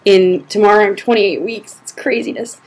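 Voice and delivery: breathless while talking; short of breath, pregnant. Real, not acted. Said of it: "I'm out of breath".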